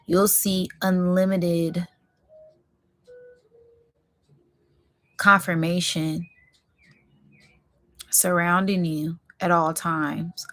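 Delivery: mystical whisper. Acted. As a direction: breathe the promise in a hushed, secret voice. Spiritual promise whispered to viewers.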